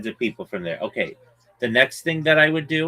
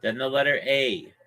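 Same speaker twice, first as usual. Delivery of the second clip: spelling it out; 3 dB quieter than usual. Shown as a demonstration. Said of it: "I'm spelling it for you".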